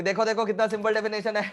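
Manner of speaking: breaking into a mock chuckle; mocking chuckling teacher. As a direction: imitate a teacher amused by how simple it is. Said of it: "पढ़ाते समय हंसने भी लगते होंगे".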